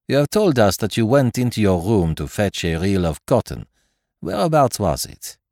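a hint of a polite French detective; lightly voiced courteous Belgian; Poirot's voice. Poirot voice held.

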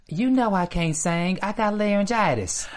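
imitated full-voice excuse; full-voiced complaint. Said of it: "in full voice".

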